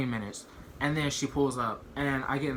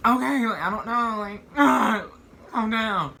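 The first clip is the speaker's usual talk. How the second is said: high, loud, laughing through it; laughing nervously; 9 semitones higher, 7 dB louder than usual. Retold or imitated. To his shocked mom, high loud nervous laughing. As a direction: laugh it off while calming her.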